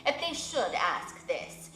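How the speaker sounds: stately owl advising the widow; wise old owl. Acted. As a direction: speak as the solemn old owl giving counsel.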